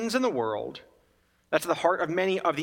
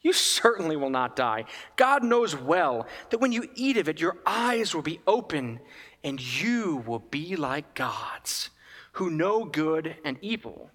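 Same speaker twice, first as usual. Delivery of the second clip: tempting serpent. Retold or imitated. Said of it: "I'm using my own inflections".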